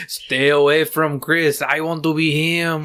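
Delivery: slow, mock Hispanic accent; drawn-out warning in a put-on Hispanic accent; hammed-up middle-aged Hispanic dude; Hispanic ghost impression. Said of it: "you don't talk like that".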